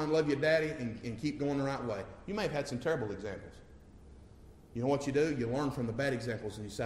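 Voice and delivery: usual speaking voice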